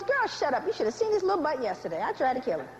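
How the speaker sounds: quick, playful brush-off; dismissive mother. Acted. Black mother cutting off praise, dismissive. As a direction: wave off the compliment, rattling on. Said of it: "before she can finish, she goes".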